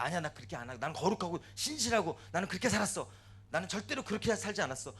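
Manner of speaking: mildly heated retort in a retold argument; argumentative protest. Job argues back with his friends, insistent protest. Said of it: "계속 그 말싸움을 해요".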